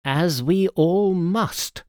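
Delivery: understated sad agreement; touch of sadness. A narrator's reading. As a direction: draw it out with mild regret. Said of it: "said with a touch of sadness".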